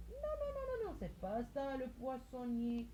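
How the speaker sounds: high pretend child saying no; mock pupil correction. Teacher voicing a pupil rejecting the fishmonger, high. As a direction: protest in a child's voice.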